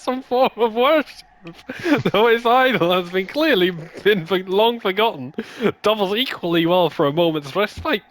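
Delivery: put-on character voice. Gamer voicing game character dialogue in put-on voice. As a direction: ham up a wandering knight, not quite Scottish. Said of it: "it's not Scottish, but I'm keeping with it".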